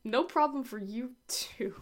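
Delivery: breathy teasing whisper. Acted. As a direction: whisper it back playfully. Playful whisper back to cohost.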